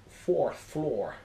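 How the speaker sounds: badly faked New York twang; New York accent. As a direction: lift attendant's rough stab at New York. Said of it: "in a typical New York accent".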